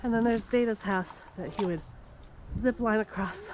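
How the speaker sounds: shallow breathing, winded from the climb. Real, not acted. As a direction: talk while catching your breath. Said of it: "Sorry, I'm out of breath".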